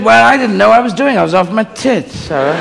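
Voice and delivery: God defending himself; James Mason. Acted. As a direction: excuse yourself grandly, starting high. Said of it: "do the James Mason".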